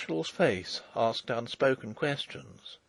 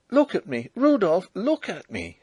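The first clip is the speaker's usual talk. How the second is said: louder, pleading, rising on Rudolf; anguished cry; 7 semitones higher, 5 dB louder than usual. Acted. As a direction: beg him to look at you. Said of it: "she cried".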